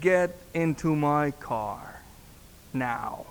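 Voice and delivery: slow, measured command, sinking on the last word; retold stern order. Husband orders pastor into car, retold stern command. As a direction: imitate a mad man giving a slow order. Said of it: "he's mad".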